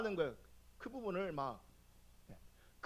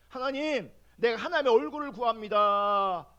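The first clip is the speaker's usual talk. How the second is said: retold prayer; 5 dB louder than usual. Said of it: "하나님 얼굴을 구하면".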